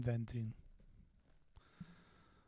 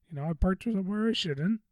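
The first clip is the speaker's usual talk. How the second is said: normal talking voice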